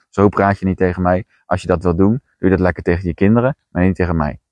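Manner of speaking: blunt boundary-setting, no softening; firm, no-nonsense telling-off. Shown as a demonstration. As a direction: shut them down flatly. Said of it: "Ik zeg dat heel hard".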